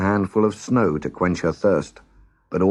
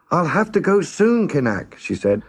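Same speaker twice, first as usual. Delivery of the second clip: yelling up; 9 semitones higher than usual. Acted. Girl yells up to the giant from his nose. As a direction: call up to the giant's ear. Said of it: "But she still had to yell".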